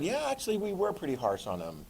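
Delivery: softly acted second thoughts; reluctant concession. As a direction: concede it quietly, as if sheepish. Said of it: "British and French people going".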